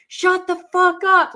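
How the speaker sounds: imitating a furious yell, high and loud; mock angry scream from a trailer; retold angry shout. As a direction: belt it like the angry neighbour.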